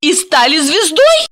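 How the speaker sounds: high questioning woman's voice. A narrator's reading. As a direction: ask it high and bright. Voices Asya.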